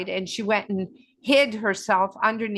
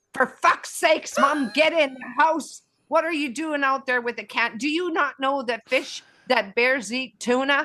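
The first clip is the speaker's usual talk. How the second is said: put-on yelling in a high voice; 5 semitones higher than usual. Retelling a son yelling from the doorway near a bear: imitating Bradley yelling. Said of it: "Bradley's yelling at me saying".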